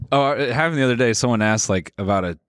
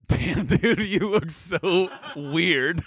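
high, slow laughing voice; 7 semitones higher, much slower than usual. Real, not acted. Laughing at his friend's old photo. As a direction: crack up at the picture.

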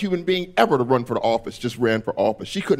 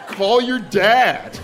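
very slow, high, sing-song; white woman phrase; 7 semitones higher, much slower than usual. Retold or imitated. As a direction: stretch each word with breezy certainty. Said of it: "That is a white woman phrase".

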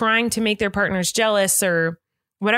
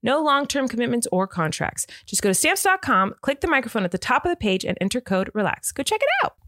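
upbeat podcast sponsor read; 2 semitones higher than usual. Acted. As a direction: rattle off the promo like an ad.

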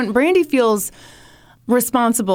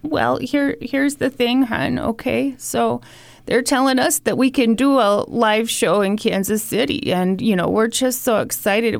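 lightly voiced nagging grandma; guilt tripping grandma. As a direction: lay the guilt on thick, sweetly. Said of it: "here comes a guilt trip from Grandma here".

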